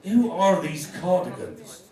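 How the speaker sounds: a touch of a slow, loud puzzled question; puzzled old friend. Retold or imitated. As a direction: drag out "Who" like a baffled old lady. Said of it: "She said".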